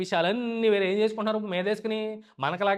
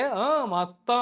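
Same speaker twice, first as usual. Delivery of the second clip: higher-pitched, easy yes; breezy assurance; 5 semitones higher, much slower than usual. Retold or imitated. Saul assuring Samuel he destroyed everything, breezily. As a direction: answer as if it is all done.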